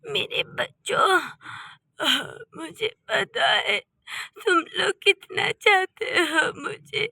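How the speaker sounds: soft, teary plea to her sons; a mother choking up, asking to stay home; tearful mother. Acted. Mother tells her quarrelling sons, teary and soft.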